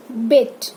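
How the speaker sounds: बिट with a brief i; rapid short i. Shown as a demonstration. Teacher models the small i, बिट said short. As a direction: keep the vowel of बिट quick. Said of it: "इसको भी rapid pronounce करना है".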